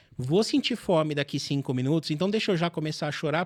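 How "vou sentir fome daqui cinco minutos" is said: plain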